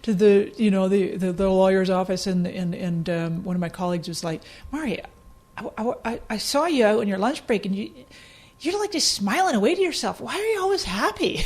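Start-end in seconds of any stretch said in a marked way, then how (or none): 4.7-11.4 lightly voiced colleague, pitch climbing as the puzzlement grows; mock-baffled questioning, ending high; puzzled colleague. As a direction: imitate a bemused coworker. Imitates a puzzled colleague questioning her.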